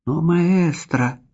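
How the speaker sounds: slow, high, astonished protest. A narrator's reading. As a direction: protest in disbelief. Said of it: "выказывая все признаки крайнего удивления".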